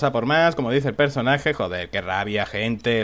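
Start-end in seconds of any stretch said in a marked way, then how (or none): 1.5-3.0 low, quiet frustrated curse; cursing under breath. Real, not acted. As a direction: grumble it out in low disappointment. Frustrated after losing point.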